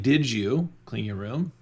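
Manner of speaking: slow, pointed check-up question; a parent quizzing a kid; accusing question. Shown as a demonstration. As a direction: ask it like you already know the answer. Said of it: "You hear the difference?".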